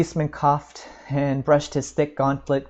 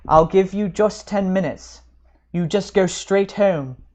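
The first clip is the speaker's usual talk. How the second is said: cheerful; 5 semitones higher, 5 dB louder than usual. Acted. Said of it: "he resumed cheerfully".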